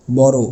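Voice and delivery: বড় said as "boro"; final o sound. Shown as a demonstration. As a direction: let বড় end on a rounded ও. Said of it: "অটা ও এর মতো উচ্চারণ হবে". (শেষে ও দিয়ে: বড়ো)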